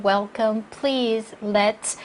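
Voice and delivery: "Welcome", "please", "let's" each set apart; a clean beat after "Welcome", "please" and "let's"; emphasis then pause. Shown as a demonstration. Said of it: "한 박자 딱 쉬고요". ("Welcome", "please", "let's" 뒤에 한 박자씩 쉬기)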